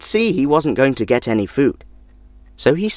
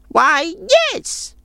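put-on high, grudging old crone; an old woman shooing off a guest; much higher, cranky old woman's voice; sour old woman.

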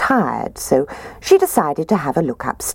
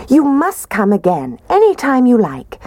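higher Mummy Bear voice; 9 semitones higher, 3 dB louder than usual. Acted.

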